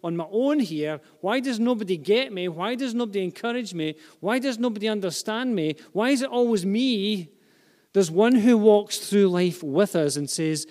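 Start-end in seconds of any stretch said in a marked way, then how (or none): 0.0-7.3 high-pitched, mounting complaint; feeling alone. Acted. Lonely person lamenting that nobody gets them, plaintive. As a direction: pile up each "why" as an aggrieved plea. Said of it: "Despite how we feel at times".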